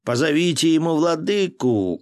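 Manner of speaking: monk yelling back through the gate; shouting. A narrator's reading. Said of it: "крикнул за воротами кто-то".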